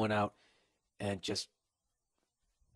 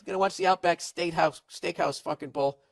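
higher, goofy dude voice dodging the invite; dopey boyfriend excuse; 6 semitones higher than usual. Retold or imitated. Podcaster voicing the guy ducking the parents, goofy higher voice. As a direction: play it off like a clueless guy. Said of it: "And you'd be like".

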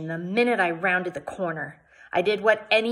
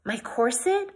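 dismay; 6 semitones higher than usual. Acted. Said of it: "I asked in dismay".

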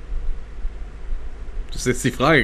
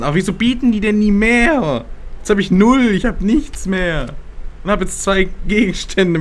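exasperated; 6 semitones higher, slower than usual. Real, not acted. Frustrated after losing all money.

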